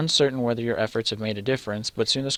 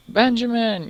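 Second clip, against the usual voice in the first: put-on high yell of a child; a captive boy yells for his brother; 12 semitones higher, 5 dB louder, slower than usual. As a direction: scream the name for help. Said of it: "yells Perocles".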